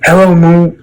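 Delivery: put-on child bunny voice. A narrator's reading. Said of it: "said Little Bunny".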